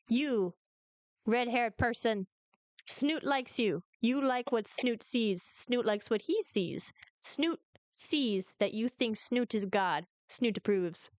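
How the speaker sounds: lightly voiced self-important little creature god; Snoot. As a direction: speak slowly and deliberately, like a tiny deity granting favour. Game master voices Snoot.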